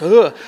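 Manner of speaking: short, loud "ugh" of being yanked; imitated grunt at a sudden tug; brief jolted groan; startled grunt. Beard grabbed, pulled close.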